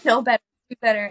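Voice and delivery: quick dismissive run; rattled off quickly. Retold or imitated. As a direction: fire the saying off fast. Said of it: "I would be like".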